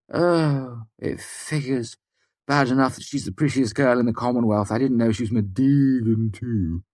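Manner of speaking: high-pitched sighing complaint; wretched. A narrator's reading. Sim learns his crush is spoken for, wretched. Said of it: "Sim sighed wretchedly".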